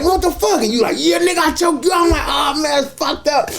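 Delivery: high, squeaky through laughter; laughing. Real, not acted. Retold shock, still laughing.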